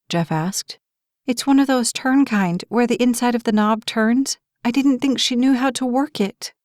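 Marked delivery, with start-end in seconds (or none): 1.2-6.5 raised, anxious mother's voice; worried mother. Acted. Mother explaining the lock to Jeff, high and anxious. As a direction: voice pitched up with worry.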